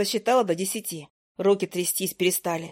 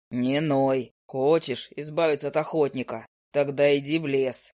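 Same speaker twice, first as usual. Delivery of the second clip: lower, unhurried familiar's voice; a grumpy bird drawling down low; low owl familiar; 6 semitones lower than usual. Acted.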